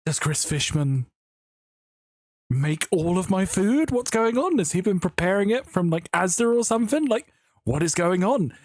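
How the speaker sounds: lightly hammed-up disbelief; baffled. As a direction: play it confused and incredulous. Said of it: "And I'm like".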